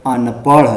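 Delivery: अनपढ़ with flicked final ṛh; careful flap model. Shown as a demonstration. Teacher finishing the recap, अनपढ़ with flapped ṛh. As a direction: say अनपढ़ as anpaṛh, rising at the end. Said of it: "इसे पढ़ेंगे".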